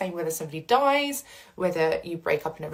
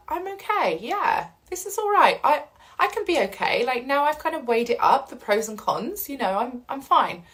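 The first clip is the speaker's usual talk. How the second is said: calm acceptance; 4 semitones higher than usual. Retold or imitated. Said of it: "make peace with it".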